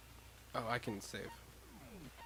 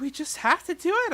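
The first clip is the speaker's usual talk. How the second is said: put-on higher, louder resigned girl; higher character voice; 8 dB louder than usual. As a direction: shrug it off in a higher voice.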